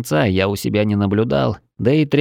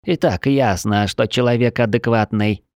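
fish man. Acted. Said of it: "булькающим голосом".

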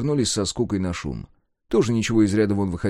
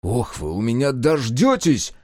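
slow, a touch of menace in the warning; mild threat; 2 semitones higher than usual. Acted. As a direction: threaten the servants, understated. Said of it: "пригрозил Егор".

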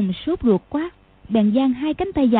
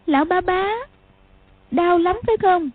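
put-on high child's voice, concerned; girl checking on the injured old man; calling gently; 8 semitones higher than usual. A narrator's reading. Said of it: "gọi".

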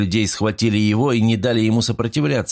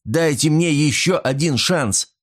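high, drawn-out begging; desperate, high-pitched appeal; despairing plea; 7 semitones higher than usual. A narrator's reading. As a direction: beg slowly in a raised pitch. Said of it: "воскликнул он в отчаянии".

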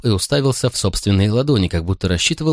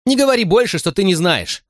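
a cry of frustration that breaks loose, much higher; shouting; 11 semitones higher than usual. Acted. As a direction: burst out, begging him to stop. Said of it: "закричал я".

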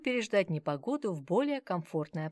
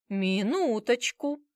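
loud, slow call to wait; exclaiming salesman; 5 semitones higher, 5 dB louder, slower than usual. A narrator's reading. Shop salesman calling out to keep the rich family, exclaiming. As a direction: stop the customers from leaving. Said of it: "воскликнул мужчина за прилавком".

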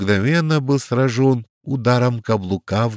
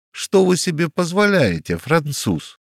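much higher outraged shout; 8 semitones higher than usual. A narrator's reading. Tall man protesting at the Frenchman, outraged shout. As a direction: yell in protest. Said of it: "закричал более рослый".

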